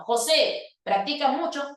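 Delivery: José practica mucho as a firm order; command tune. Shown as a demonstration. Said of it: "se lo estoy ordenando".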